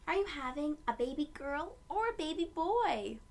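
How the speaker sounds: a light, curious shop-lady question; a hint of a nosy shopper; lady asking. A lady in the shop asking Mom, lightly voiced. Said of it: "asked a lady".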